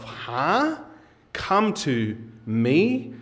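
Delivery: puzzled "Huh?", then "me" drawn out slowly and rising; incredulous questioning. Acted. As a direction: echo it slowly as a baffled question. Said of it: "right now you're saying to yourself".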